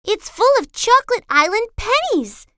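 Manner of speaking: a hint of a jolly sea captain; captain handing Grace a purse, cheerfully; Captain Cook's voice. A narrator's reading. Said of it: "she said".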